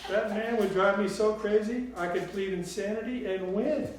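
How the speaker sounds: high, loud, emphatic Southern grandmother; Southern drawl. A narrator's reading. Grandmother joking about murdering Papa, loud Southern drawl. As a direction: proclaim it boldly in a Southern voice. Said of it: "in her sweet southern drawl".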